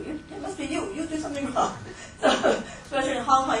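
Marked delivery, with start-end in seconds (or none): 0.1-1.8 higher-pitched scolding parent, lightly acted; blaming parent. Parent telling the child it's their fault, mock scolding. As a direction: voice a parent placing the blame. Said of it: "the parent kept telling you".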